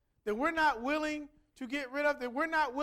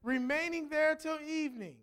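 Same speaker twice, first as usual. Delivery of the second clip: measured, solemn Bible reading; formal scripture recitation; 3 semitones lower than usual. Acted. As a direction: read the passage aloud deliberately, with pauses between phrases. Reads scripture aloud.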